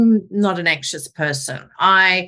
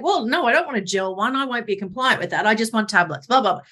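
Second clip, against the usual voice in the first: bossy; faster than usual. Retold or imitated. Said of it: "bossy and dominant".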